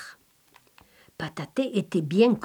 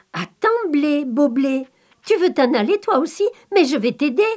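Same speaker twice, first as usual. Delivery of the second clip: lightly raised, eager voice for the innocent Pataté; simple-hearted Pataté; 4 semitones higher than usual. Acted. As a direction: coax the wheat like a kind simpleton. Pataté retells his words.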